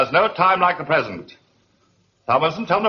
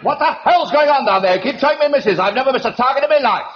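angry shout; 5 semitones higher than usual. Acted. Major shouting down to the pit, furious at the misses. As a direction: yell down the range at the fools.

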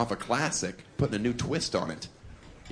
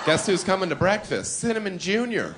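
mock announcement; 7 semitones higher than usual. Acted quote, stripper's call.

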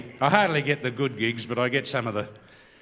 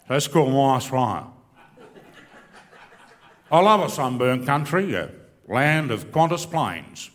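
lowered, slow sentimental Aussie crooner; folk-country singer style; 3 dB louder, slower than usual. Retold or imitated. Comedian parodying a patriotic singer for the crowd, lightly voiced. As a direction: lay on the folksy patriotic croon. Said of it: "just add a bit of that".

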